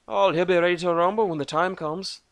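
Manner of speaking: gruff Celtic dwarf voice; Irish-Scottish dwarf. A narrator's reading. Dwarf Thorgan answering Lucas, Scottish-Irish brogue. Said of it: "Irish, Scottish".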